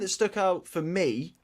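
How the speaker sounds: "stuck" said in a light Brummie accent, "stook". Real, not acted. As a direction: slip a Brummie "stuck" into plain talk. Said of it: "I went for a Brummie accent when I said stuck".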